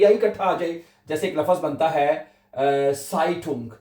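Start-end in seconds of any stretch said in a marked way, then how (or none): 2.9-3.7 साइटुंग said slowly as German "zaitung", ai as in eye; German pronunciation. Shown as a demonstration. Teacher to students, slow model pronunciation. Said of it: "ये देखिएगा".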